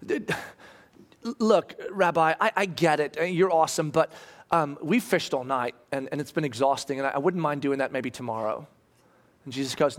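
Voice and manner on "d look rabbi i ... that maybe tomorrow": hesitant, subdued reluctance, sinking lower and softer; mildly frustrated. Retold or imitated. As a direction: stall politely while holding back frustration. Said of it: "hear the frustration in Peter's voice".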